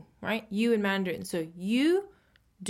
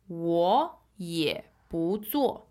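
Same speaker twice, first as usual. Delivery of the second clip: slow model reading; 3 semitones lower, much slower than usual. Shown as a demonstration. Teacher models the sentence slowly.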